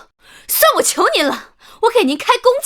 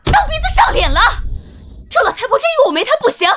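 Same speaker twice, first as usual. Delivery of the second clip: angry outburst; 4 semitones higher than usual. Acted. Daughter-in-law enraged, threatens her.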